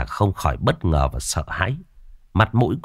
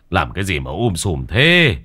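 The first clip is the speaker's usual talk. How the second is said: scolding that rises as it goes; impatient ordering. A narrator's reading. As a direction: take charge and send the women out, mildly exasperated. Man orders wailing women out. (gắt nhẹ, giục giã)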